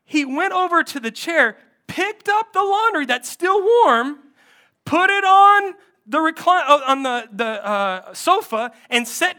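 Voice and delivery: high, loud indignant retelling; mad wife. Retold or imitated. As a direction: play an exasperated wife, each action stressed. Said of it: "this made me so mad".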